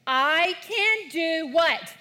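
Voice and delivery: high, slow prompting question; leading recitation. Shown as a demonstration. Pastor prompting the kids' answer, high and slow. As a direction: cue the kids to answer. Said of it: "let's look at this one".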